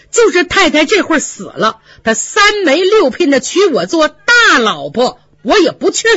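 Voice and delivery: lightly voiced Yuanyang, rising to a defiant vow; defiant maid. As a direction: refuse flatly, getting heated. Yuanyang vows refusal.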